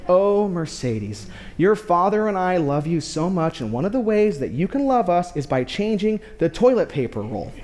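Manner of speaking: mock-sweet mom gently correcting her child; sweet loving mom. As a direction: play the patient, loving wife. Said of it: "That's exactly how she sounds".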